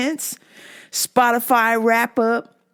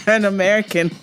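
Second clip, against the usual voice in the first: quick put-on American accent; a quick stab at an American twang; faster than usual. Shown as a demonstration. Host promising Dean to sound American, mock American accent. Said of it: "try my best to sound like".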